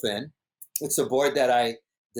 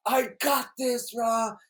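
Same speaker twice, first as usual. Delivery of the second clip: much higher, slow, mock-cocky imitation; confident Brock; 13 semitones higher, slower than usual. Imitating Brock brushing off his friend, high slow cocky voice. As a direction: drawl it like he owns the wave. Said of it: "He goes".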